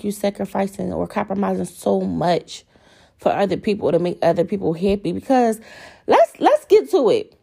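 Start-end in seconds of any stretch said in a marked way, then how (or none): 6.1-7.4 rising heat, voice jumping high; worked up. Real, not acted. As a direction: get fired up about it. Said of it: "I'm getting all, like, worked up".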